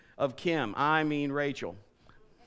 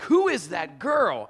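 smitten wonder; 6 dB louder, slower than usual. Retold or imitated. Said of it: "I'm like".

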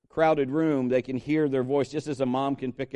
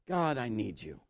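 low, very soft plea to God; hushed prayer; 7 semitones lower, 10 dB quieter than usual. Acted. Preacher models telling God he needs Him, hushed prayer. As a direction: pray it quietly, almost to yourself.

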